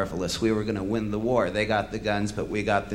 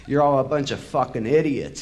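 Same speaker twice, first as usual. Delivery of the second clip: loud, raised angry bellow; 2 semitones higher, 4 dB louder than usual. Retold or imitated. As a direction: bellow the insult at the crowd. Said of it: "he bellowed".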